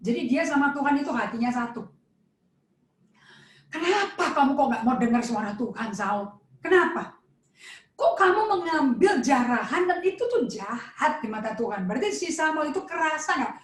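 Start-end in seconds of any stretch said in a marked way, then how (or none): 3.7-11.9 heartfelt rebuke. Shown as a demonstration. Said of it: "sekarang sini dengerin intonasinya Samuel".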